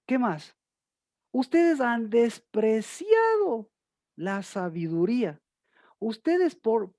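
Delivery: slow, rising, insistent sermon rebuke; fiery preaching. Acted. Preacher rebuking the congregation for their simpleza, slow and insistent. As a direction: hammer each ustedes at the flock.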